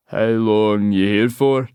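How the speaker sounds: slow, loud pushy local; Scottish pub man. Acted. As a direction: lean in and drawl the question. Local man questions her.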